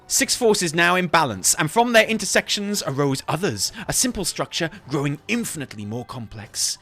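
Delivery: theatrical reading with a rising climax; dramatic rambling scholar. Acted. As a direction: start composed, work up to manic wonder. Reads lore in character.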